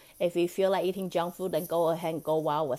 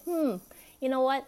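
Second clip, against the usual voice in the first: coaxing invitation; 6 semitones higher than usual. Pretend. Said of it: "me and me having a conversation".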